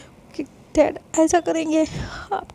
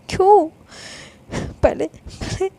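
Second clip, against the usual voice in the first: sharp angry why; 3 semitones higher, slower than usual. Acted. Older sister demands an answer from Lovely, angrily. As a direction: hurl the question at her.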